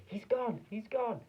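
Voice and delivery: high, loud shriek of panic; mother shrieking that her son is gone; horrified scream. A narrator's reading. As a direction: scream it in horror. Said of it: "she screamed".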